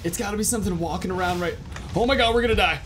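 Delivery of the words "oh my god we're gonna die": terrified horror victim. Real, not acted. Dinosaur attack, panicked gamer.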